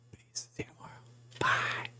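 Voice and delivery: barely voiced, fading off-mic farewell; whispered goodbye. Streamer whispering a last goodbye to viewers, faint and fading.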